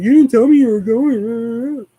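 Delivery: imitating mom's annoyed whine, slow; mock pissy mom. Son mimics mom scolding him over Dairy Queen, mock pissy. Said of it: "she's all fucking pissy".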